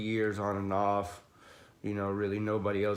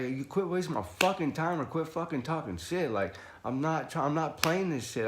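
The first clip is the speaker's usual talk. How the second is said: raised-pitch impatient rant, not shouted; animated retold scolding; retold anger; 5 semitones higher than usual. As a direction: tell him off, fed up. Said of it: "I had anger".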